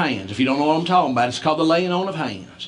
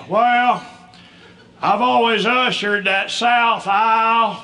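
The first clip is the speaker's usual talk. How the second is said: dad's proud announcement; 6 semitones higher, slower than usual. Retold or imitated. Dad proudly telling his son about the center aisle. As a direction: announce it like big news.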